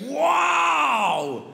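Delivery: hammed-up wonder at his French; mock amazement. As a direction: play the Parisian's dumb surprise. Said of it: "il m'a dit".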